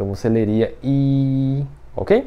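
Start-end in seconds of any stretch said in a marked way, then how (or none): 0.8-1.6 high level first tone held flat on I. Teaching mandarin tones in portuguese: high level tone on i. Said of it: "começa lá em cima e ela mantém".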